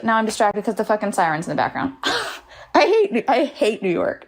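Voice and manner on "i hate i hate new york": voice cracking. Real, not acted. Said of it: "hear my voice crack".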